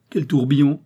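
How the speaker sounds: high, lively exclamations; joyful old lady. A narrator's reading. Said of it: "jura joyeusement la vieille dame".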